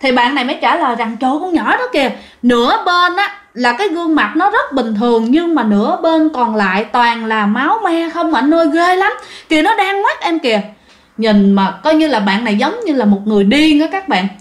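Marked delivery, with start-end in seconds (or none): 1.2-10.6 high, frightened babbling; terrified. Retold or imitated. Mason to the officer about the bloody girl, high terrified voice. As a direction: describe her half-bloody face in panic.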